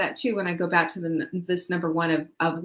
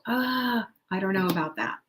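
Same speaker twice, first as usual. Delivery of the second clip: mock reluctant "ah", then softer doubt; hesitant doubt; 4 dB quieter than usual. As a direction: balk a little at a risk. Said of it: "that makes us go".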